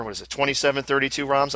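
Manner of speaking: tentative, checking "twenty-seven thirty-two roms"; hesitant first try at "twenty-seven thirty-two roms"; unsure reading. Real, not acted. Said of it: "I hope I said that right".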